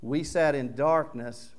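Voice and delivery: loud wow, then slow awed words; amazed realization. Retold or imitated. Listener imagined realizing the prophecy, amazed. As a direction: marvel at it slowly. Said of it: "or you can say".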